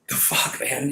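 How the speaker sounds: breathy unvoiced disbelief under his breath; exasperated whisper. Real, not acted. Venting about his girlfriend, whispered disbelief. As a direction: let it slip out as a defeated whisper.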